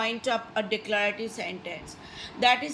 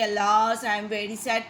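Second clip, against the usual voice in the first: sad exclamation; 3 semitones lower, faster than usual. Shown as a demonstration. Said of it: "When you express".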